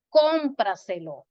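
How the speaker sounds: cómpraselo with a strong, slow CÓM; stress on first syllable. Shown as a demonstration. Teacher gives an example word, cómpraselo stressed on CÓM. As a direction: punch CÓM and let praselo fall in cómpraselo. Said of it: "llevan el acento en la antepenúltima".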